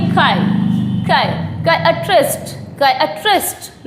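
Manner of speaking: "खाए" as kai, then kai-uh-trist; "खाए" repeated in separate pieces, building the word; syllable drill. Shown as a demonstration. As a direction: isolate "खाए", then add "अ ट्रिस्ट". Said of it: "तीसरा हम बोलेंगे".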